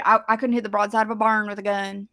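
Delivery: country-accented saying. Shown as a demonstration. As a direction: say the phrase with a country twang. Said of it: "that is just how I say that".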